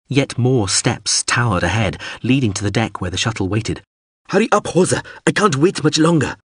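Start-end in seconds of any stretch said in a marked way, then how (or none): 4.3-6.4 high-pitched, pressing shout; urgent call. A narrator's reading. Pilot urges Hawser to hurry aboard, urgent high shout. Pilot urging man to board.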